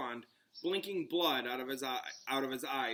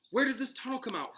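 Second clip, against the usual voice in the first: breathlessly; 10 semitones higher, 3 dB louder, faster than usual. A narrator's reading. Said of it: "Hermione asked breathlessly".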